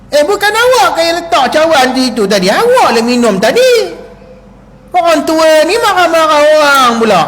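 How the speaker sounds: wife answering back, mildly indignant; snapping back. Acted. Wife blames husband for cup, mild retort.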